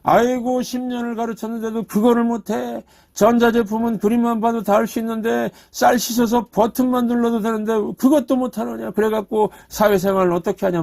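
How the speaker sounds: mock sighing at a useless husband; exasperated wife. Pastor imitating a wife scolding her husband over the rice cooker, mildly exasperated. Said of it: "부인은 어떻게 남편을 무시할까요".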